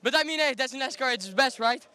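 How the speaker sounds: out of breath. Real, not acted. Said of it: "I need to catch my breath".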